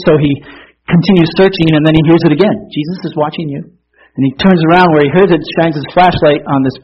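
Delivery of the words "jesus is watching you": softer, put-on small voice. Small voice heard once more by the searching burglar, soft. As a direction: say it small and softly, lightly acted. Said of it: "this small voice that says".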